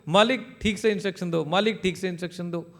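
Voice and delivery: robot raising its voice to scold its owner. Acted. Robot insisting at its owner, loud and insistent. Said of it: "ज़ोर से बोलेगा वो".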